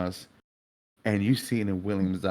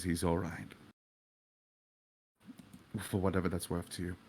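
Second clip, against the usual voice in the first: put-on softer, calm, sincere young man; gentle William, softly apologetic; 3 semitones lower, 5 dB quieter than usual. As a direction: speak quietly and kindly to him. William answers the grieving father.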